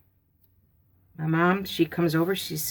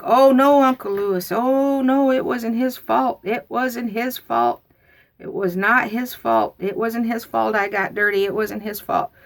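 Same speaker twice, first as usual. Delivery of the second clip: put-on much higher, pleading child voice; childish pleading; 7 semitones higher, 4 dB louder than usual. Girl begging Uncle Lewis, high pleading. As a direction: plead desperately for the cousin.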